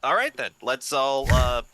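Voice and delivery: a lightly voiced king covering an awkward pause with a high nervous laugh; king breaking an awkward silence with a nervous laugh. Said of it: "just an awkward pause and goes".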